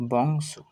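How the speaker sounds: বংশ with a clear ng before the sibilant; full pronunciation. Shown as a demonstration. Teacher gives the full pronunciation, বংশ enunciated. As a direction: say বংশ carefully as one word. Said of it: "এর সম্পূর্ণ উচ্চারণ হবে".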